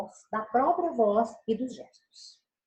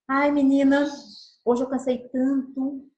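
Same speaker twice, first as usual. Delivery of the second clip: louder, drawn-out tired lament to a friend; weary sigh-like complaint; 3 semitones higher, 5 dB louder, slower than usual. Shown as a demonstration. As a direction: moan about being worn out. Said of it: "Viram como que eu usei a voz".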